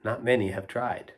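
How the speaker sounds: lilting, rhythmic storybook reading; poem read aloud. Acted. Reader sharing a poetry book with children, sing-song rhythm. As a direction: read the rhymes with a playful bounce. Reads rhyming poem to kids.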